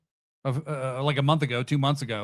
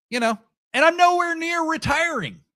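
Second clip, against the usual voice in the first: sarcastic; 6 semitones higher than usual. Real, not acted. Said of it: "everything I say sounds sarcastic".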